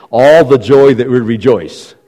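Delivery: slow, weighty stress on "All" and "joy"; emphatic. Shown as a demonstration. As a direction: draw out "All the joy" and lean on "rejoice". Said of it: "it's emphatic in its grammatical structure".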